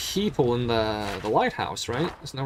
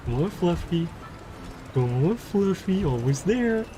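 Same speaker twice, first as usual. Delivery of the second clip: coaxing a pet; 4 semitones higher than usual. Acted.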